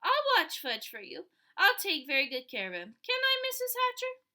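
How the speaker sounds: loud, high pleading, rising to a squeal; begging. A narrator's reading. Sheila begging Peter's mother to let her mind Fudge. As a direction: beg to be allowed. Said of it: "begged some more".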